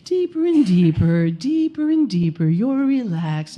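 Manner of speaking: lightly voiced hypnotist lulling a client; hypnotist countdown. Doula counting her client down into a trance, lightly mimicked hypnotist. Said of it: "her voice is getting softer and softer".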